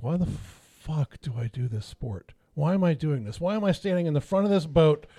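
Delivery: building from a mutter to a high, loud rant; retold angry rant. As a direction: let the frustration climb into a shout. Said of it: "I am fuming with rage".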